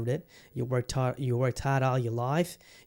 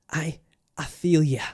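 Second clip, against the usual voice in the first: whisper; 3 semitones higher, 5 dB louder, slower than usual. Retold or imitated. Whispered reply in retold chat.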